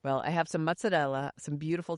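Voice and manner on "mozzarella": Staten Island accent. Real, not acted. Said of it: "You still have the accent".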